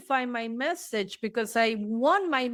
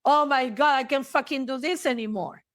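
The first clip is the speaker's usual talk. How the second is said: a burst of frustration, louder and quick; loud fast venting, half-acted; exasperated outburst; 3 semitones higher, 3 dB louder than usual. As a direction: blurt it out, fed up. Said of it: "tell a parent or a child".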